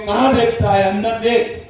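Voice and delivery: harsh scolding. Shown as a demonstration. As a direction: snap at the child the wrong way. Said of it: "ایسا نہیں".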